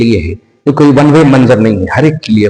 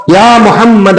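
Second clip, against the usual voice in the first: calling out loudly, a little higher; a loud retold call of devotion; loud cry; 7 semitones higher, much slower than usual. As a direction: cry the name out with longing. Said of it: "انہوں نے اتنے زور سے کہا".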